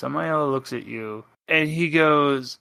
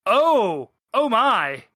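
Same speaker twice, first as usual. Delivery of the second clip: high, flustered exclamation; mock-scandalised, raised pitch; startled parents; 9 semitones higher, 3 dB louder, slower than usual. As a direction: gasp it as if caught in the act. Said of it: "and they're just".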